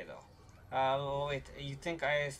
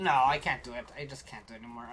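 giving up; 5 semitones lower, faster than usual. Real, not acted. Gives up after failed squeal.

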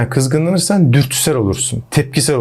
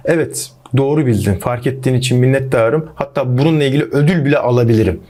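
lightly voiced mock agreement; ironic reply. Shown as a demonstration. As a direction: play it dry and ironic, overdoing the praise. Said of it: "bu bir ironidir". (hafif ironik, abartılı kabul)

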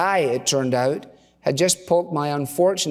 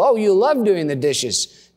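higher, slow, drawn-out teasing quote; young wife's assurance; 6 semitones higher, 3 dB louder than usual. Retold or imitated. Wife to husband across dining table, higher and drawn out. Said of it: "Playfully, I inquired just how".

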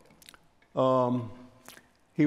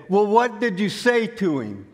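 higher-pitched, imitated impatient question; eager demand; 7 semitones higher, 3 dB louder than usual. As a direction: press for the answer like an eager listener. Eager listener demands the punchline.

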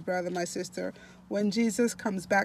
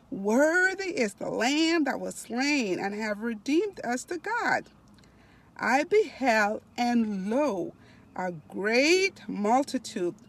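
slow, stretched, emphatic reading aloud; devotional reading; slower than usual. Acted. Preacher reading of heaven to online listeners, slow devotional reading. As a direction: draw out key words with rising swells.

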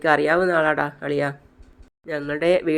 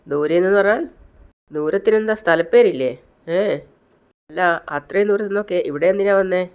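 higher-pitched teasing interrogation; mocking; 3 semitones higher than usual. Raggers quiz a new student about her village, mocking. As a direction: needle the newcomer with questions. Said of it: "എല്ലാവരും കളിയാക്കി ചിരിക്കുകയാണ്".

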